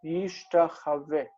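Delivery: "Yishtachaveh" repeated slowly on its own; "Yishtachaveh" as yish-ta-cha-veh, unhurried and clear; model pronunciation. Shown as a demonstration. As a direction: say "Yishtachaveh" again for the class to hear. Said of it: "the future is Yishtachaveh".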